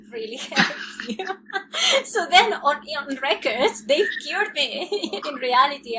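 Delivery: real laughter, half crying; bitter laughing. Real, not acted. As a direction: laugh at the absurd claim.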